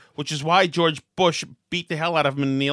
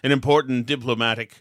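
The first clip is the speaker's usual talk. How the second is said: mock pompous politician; 6 semitones lower than usual. Host mocking Kerry's speech, low pompous drone. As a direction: lightly mimic a bloviating orator. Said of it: "he doesn't talk like this".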